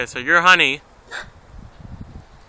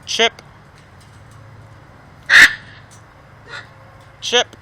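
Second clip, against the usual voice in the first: calling out; 7 semitones higher, 10 dB louder than usual. Real, not acted. Calling a parrot by name.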